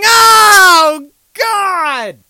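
high, loud cry building into a drawn-out wail; aghast exclamation. Real, not acted. Host recoiling from a man drinking river beer, aghast. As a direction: let disbelief push the voice up. Reacting aghast to a gross story.

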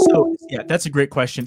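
heavy allergy breathing; audible breathing. Real, not acted. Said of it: "if you hear me breathing weirdly".

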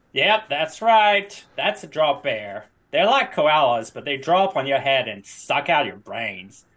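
hammy Australian tour guide; terrible Australian accent. Pretend. Guide telling tourists about drop bears, fake Australian accent. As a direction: explain it in badly faked Australian. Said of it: "Australian accent".

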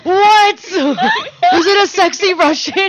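high, loud squealing gossip questions with laughs; hammed-up girlfriend squeal over the hot guy; mock excited gossip. Teasing Tatiana about the Russian guy, mock squealing excitement.

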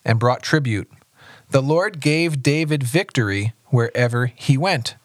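even, measured Bible reading; understated read-aloud narration; scripture reading. A narrator's reading. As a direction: read the passage aloud plainly and steadily.

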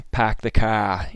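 Boston "Pack the car", r dropped, pack like "pahk"; Boston accent. Shown as a demonstration. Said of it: "instead of "park the car".

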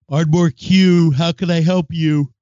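bright cashier phone voice; phone greeting. Retold or imitated. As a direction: answer like a cashier. Imitating staff answering phone.

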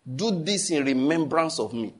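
each word slow and weighty; slow solemn quote. Shown as a demonstration. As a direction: intone Jesus's words slowly. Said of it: "That's what Jesus said".

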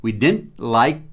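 "like" said slowly without any D ending; "We didn't like", with "like" and no "liked"; no final D. Shown as a demonstration. Teacher shows the past-tense negative to learners, slow. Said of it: "sem o D".

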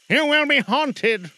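high, slow, loud spectral lament; slow mournful ghost. Acted. Marley's ghost mourning to Scrooge. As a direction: stretch it out like a suffering spirit.

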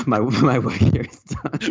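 slow, laughing grand pronouncement; slow mock-heroic sign-off through a laugh; mock triumphant. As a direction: declare it like a smug hero leaving.

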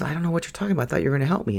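voicing someone else's baffled objection; retold bewildered protest. Retold patient protests, confused by advice.

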